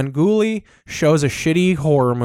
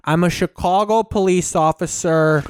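put-on Chicago accent; 4 semitones higher than usual. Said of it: "Meathead Chicago tries to throw".

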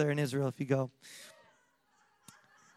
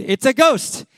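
retold mild scream; 6 semitones higher, 4 dB louder, slower than usual. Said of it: "and they screamed".

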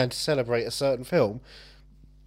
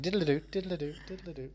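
flashback jingle; 12 dB quieter, faster than usual. Acted. Imitated flashback sound effect.

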